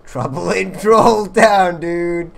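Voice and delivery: loud, high and drawn-out cheer; excited shout. Real, not acted. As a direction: shout the name out slowly, thrilled. Excitedly seizing on the joke name.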